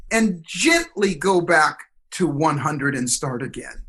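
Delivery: slow, gentle meditation instruction; retelling the teacher's calm meditation guidance; calm guiding voice. Retold or imitated. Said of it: "in your mind, just say the numbers".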